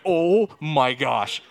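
loud, drawn-out exasperated groan; dad overwhelmed finding his son safe, exasperated; exasperated relief. Retold or imitated. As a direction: let it all out, torn between hug and scold.

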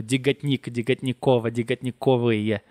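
"Digatnik" growing ending by ending in Russian sounds; shifting word endings. Shown as a demonstration. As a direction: step evenly through "Digatnik, Digatnikova, Digatnikovaya". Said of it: "né, mudando".

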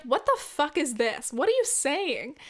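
slow, incredulous mock outburst; baffled. Player reacting to bingo calls, baffled. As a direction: question it in disbelief.

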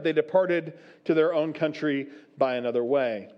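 measured, solemn Bible reading; steady pulpit reading voice; scripture reading. Acted. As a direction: read the passage aloud to the congregation. Reads Matthew's account aloud.

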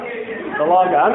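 slow, drawn-out fumble with a rising end; fumbled line. Shown as a demonstration. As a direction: stretch it out as if stalling. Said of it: "I'm, I'm, I'm sorry".

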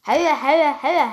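loud hurried repeated calls; loud repeated yelling. Real, not acted. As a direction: yell it out in a panic. Panic about name shown.

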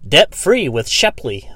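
slow, drawn-out ad line; lightly mocking a billboard slogan; billboard slogan read. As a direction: read it like a cheesy ad. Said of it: "It was like".

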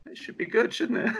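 laughing. Real, not acted. Laughs while asking.

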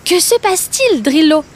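a curious giraffe checking on a friend. Acted. Giraffe asking the hurt crocodile what is wrong.

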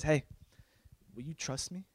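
soft, gentle question; kind, sincere. Acted. God asking the ranter for trust, kind and sincere. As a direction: ask it gently, like a patient father. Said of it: "In a very kind, sincere voice".

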